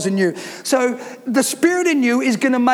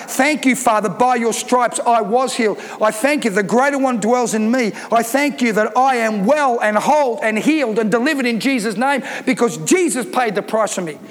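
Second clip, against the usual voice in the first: confident declaration. Shown as a demonstration. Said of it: "You gotta speak life".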